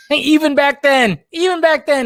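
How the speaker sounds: laughing high through the words; giggling it out, amused. Real, not acted. Laughing at the guy with the ball cap.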